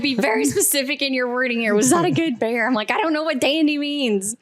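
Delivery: high, insistent, playful exasperation; excited exasperation. Retold or imitated. Hunter demanding a clear answer from guide, exasperated. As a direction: re-enact pressing for a straight answer.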